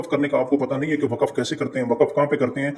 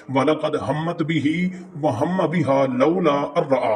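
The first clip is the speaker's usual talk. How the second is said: slow recitation; slower than usual. Shown as a demonstration. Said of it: "ये नीचे वाली आयत है".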